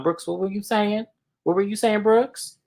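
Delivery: high-pitched challenging question; mock confrontation. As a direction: imitate someone demanding an explanation. Acted confrontation between two women.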